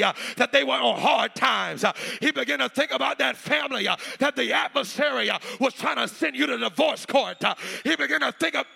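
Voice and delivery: impassioned, driving sermon cadence; rhythmic preaching. Acted. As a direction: build the Bible story phrase by phrase. Preaches Bible story rhythmically.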